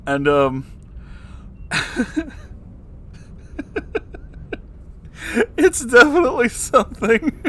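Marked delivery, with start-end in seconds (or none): 0.7-5.5 squeaky wheezing laugh; helpless high cackle; high breathless laugh. Real, not acted. Laughing at the terrible fanfic he is reading, high wheeze. Reacting to the fic line. 5.6-7.4 squeaked out high through laughter; laughing. Real, not acted. Repeating his own verdict while cracking up, high laughing.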